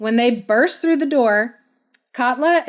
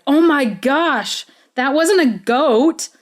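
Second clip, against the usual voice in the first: higher, drawn-out shocked realization; mock astonishment; 4 semitones higher, 3 dB louder than usual. Searchers realizing the goat was Odd, mock astonishment. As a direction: act out a stunned penny-drop, pitched up. Men realize they were tricked.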